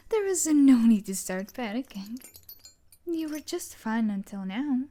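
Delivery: loud, stern rebuke; sharp scolding. Acted. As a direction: snap at them to stop panicking. Captor scolding panicking captive.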